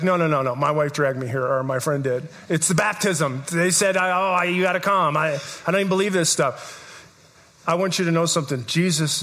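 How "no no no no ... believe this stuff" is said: lower, grumbling skeptic protesting; a dragged-along visitor voicing doubt, lower; reluctant churchgoer. Congregation skeptic to preacher, grumbling lower reluctance. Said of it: "You're like".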